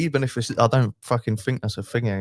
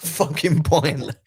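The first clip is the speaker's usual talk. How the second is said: laughing through the words, rising high; real disbelieving laughter; 6 semitones higher, 4 dB louder, much slower than usual. Real, not acted. Laughing in disbelief to his mate about YouTube.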